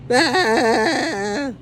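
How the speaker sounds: a high fake sob; hammed-up cry for pity; mock crying wail. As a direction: wail like an old gringo crying. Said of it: "start hollering".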